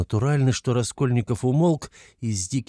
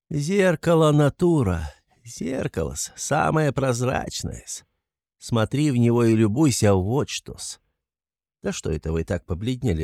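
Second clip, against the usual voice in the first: sly, chuckling investigator; 3 semitones higher than usual. Acted. Investigator needling Raskolnikov about how suspects give themselves away, sly. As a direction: toy with the suspect, rambling and insinuating.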